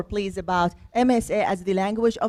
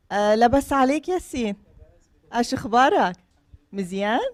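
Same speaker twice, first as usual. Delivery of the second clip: Moroccan Arabic greeting; much faster than usual. Shown as a demonstration. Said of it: "we're communicating in Moroccan Arabic now".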